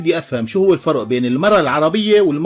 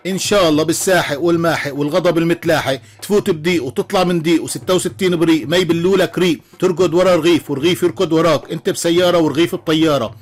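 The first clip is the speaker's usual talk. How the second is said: cold curse. Acted. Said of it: "قالت له بكل برود وهي متسطحة".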